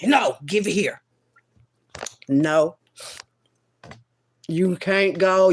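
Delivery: urgent hushed whisper. Retold or imitated. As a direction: whisper it as a stubborn little spirit. Spirit refusing, voiced by teller.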